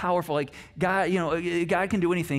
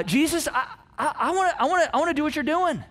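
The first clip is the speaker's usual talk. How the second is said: high, eager, stammering mock plea; Peter; 11 semitones higher, 4 dB louder than usual. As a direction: play the crazy friend, bursting to join in. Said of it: "kind of the crazy one of the bunch".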